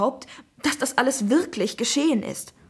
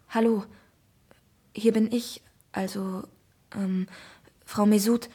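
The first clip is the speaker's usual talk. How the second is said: hesitant, scratchy throat; scratchy voice, faltering on the phone. Acted. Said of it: "antworte ich mit kratziger Stimme".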